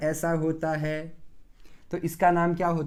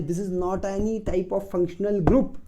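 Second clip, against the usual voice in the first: slow emphatic; 3 semitones higher, 4 dB louder, much slower than usual. Real, not acted. Teacher stresses point in English.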